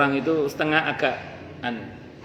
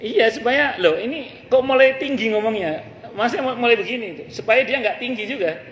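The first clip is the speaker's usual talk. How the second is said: raised voice; 6 semitones higher than usual. Retold or imitated. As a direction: lift the voice high to show it. Mimics rising his own voice.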